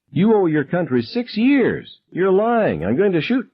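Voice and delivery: high, slow, menacing accusation; threatening gunman. Acted. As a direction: spell out the threat, slowly. Gunman threatens lying teacher.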